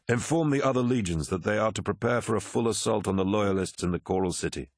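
firm orders, rising at the close; commanding Horus. Acted. Horus orders the legions to attack, commanding. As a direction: issue battle orders decisively.

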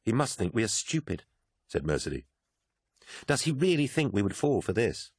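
a hint of an urgent Mercedy; Mercedy, a sharp young woman. Mercedy warning Sinderman about Malachhurst, insistent.

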